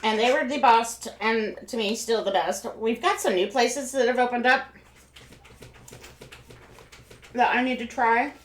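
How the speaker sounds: mouth full. Real, not acted. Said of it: "I will try not to talk with food in my mouth".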